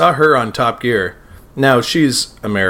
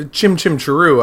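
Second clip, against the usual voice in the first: Mary Poppins accent; 7 semitones higher than usual. Shown as a demonstration. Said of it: "I can say".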